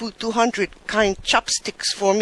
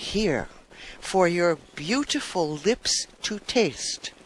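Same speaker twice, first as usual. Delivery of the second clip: seductive offer; 4 semitones lower, 4 dB quieter than usual. Acted. Suitor offers her a drink.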